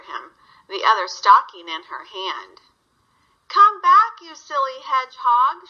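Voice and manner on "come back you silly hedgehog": high, loud call after him; girl calling after the hedgehog, loud. Acted. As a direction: call him back across the yard. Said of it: "she called".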